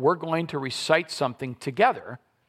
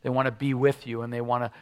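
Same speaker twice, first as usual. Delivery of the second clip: prayer. Acted. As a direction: pray it gently to the Father. Closing prayer.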